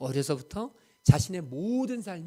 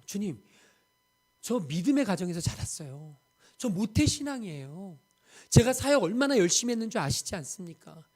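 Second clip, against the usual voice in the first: rising pleading protest, higher and louder; missionary protesting to the Lord, pleading cry; 4 semitones higher, 5 dB louder than usual. Retold or imitated. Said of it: "라고 외치고 싶었는데".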